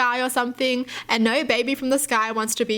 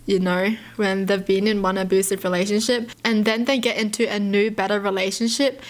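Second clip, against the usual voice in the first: ordinary delivery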